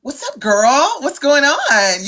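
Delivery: put-on casual hello, rising on "girl", drawn out after; friendly greeting. Shown as a demonstration. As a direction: greet a friend, stretching "going on". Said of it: "I can tell when you just like".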